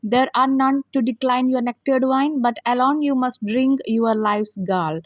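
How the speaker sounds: very slow, measured recital of the verse; slow poem reading. Shown as a demonstration. Teacher recites the poem lines to students, very slowly. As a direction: let each word of the poem land slowly.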